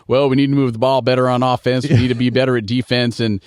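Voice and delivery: a hint of a sideline coach rattling off clichés; lightly voiced coach at halftime; mock coach interview. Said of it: "stick the microphone in the coach's face".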